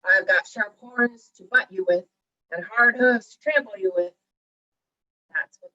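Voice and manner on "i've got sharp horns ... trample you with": loud, bold threat; forceful storybook billy goat; big goat's cry. A narrator's reading. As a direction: warn the troll off as the big goat. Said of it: "cried the big billy goat".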